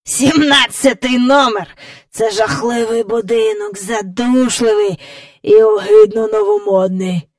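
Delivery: lightly voiced cackling old man; a hint of a scornful old croaker; croaking great-grandfather. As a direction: grumble as a croaky old man, chuckling between phrases. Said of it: "каркнув прадідусь".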